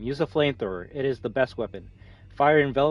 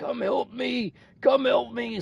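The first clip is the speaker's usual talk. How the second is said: mimicked cry, higher pitch; 11 semitones higher than usual. Imitating a missing friend's voice heard calling in the woods: imitating a friend calling for help. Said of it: "my friend's voice clearly saying".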